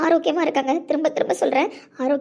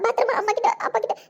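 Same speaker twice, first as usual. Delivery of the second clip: tearful laughing plea; 4 semitones higher than usual. Acted. Mother pleads with unborn babies.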